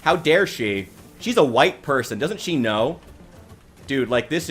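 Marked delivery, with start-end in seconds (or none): 0.0-3.0 mockingly indignant; heavy sarcasm, pretending to scold; sarcastic mock outrage. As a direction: feign being scandalized by her.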